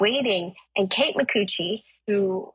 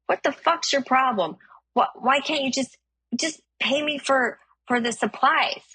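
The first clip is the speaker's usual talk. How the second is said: higher-pitched mock indignation; indignant quarrelling; 6 semitones higher than usual. Stranger demands payment from driver, indignant. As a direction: imitate an aggrieved demand, voice pushed up.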